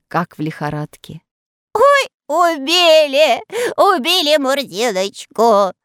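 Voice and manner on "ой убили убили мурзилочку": high, loud slow howl; moaning wail. A narrator's reading. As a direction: moan as if dying. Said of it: "стонал он". (стонет, будто убит)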